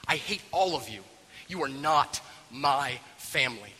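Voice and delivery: acted, restrained anger; deliberate, seething delivery without shouting; bitter outburst. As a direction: disown them word by word. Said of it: "and he blows up".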